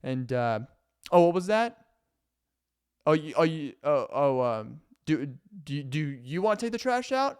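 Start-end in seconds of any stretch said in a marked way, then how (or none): 1.1-7.4 lightly higher, sugary hinting voice; mildly high fake-friendly roommate; passive aggressive roommate. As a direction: drop hints sweetly, never asking outright. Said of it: "they're just like".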